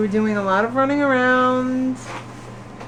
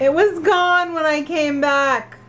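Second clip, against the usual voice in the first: grating voice; 4 semitones higher, slower than usual. Acted. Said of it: "Sorry for the annoying voice".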